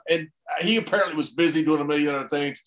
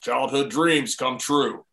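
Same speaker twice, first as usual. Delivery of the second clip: lightly imitated boss's catchphrase, slow and lower; slow, low mimicry of the boss; Vince; 4 semitones lower, slower than usual. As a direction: draw it out in a mild impression, pitched down. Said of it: "catchphrases just like Vince".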